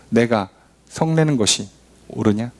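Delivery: voicing God. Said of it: "여호와께서 뭐라고 말씀하십니까".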